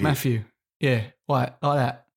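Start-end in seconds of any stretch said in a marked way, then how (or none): 0.0-0.4 "Matthew" with an F sound in the middle; "Matthew" Cockney-style, F replacing the TH. Shown as a demonstration. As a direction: say "Matthew" as "Maffew". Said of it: "they do F, a lot of Fs".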